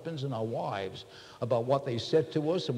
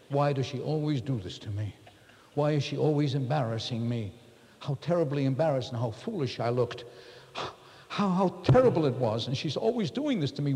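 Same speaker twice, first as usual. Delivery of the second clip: self-pitying complaint. Retold or imitated. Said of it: "And my conversation is".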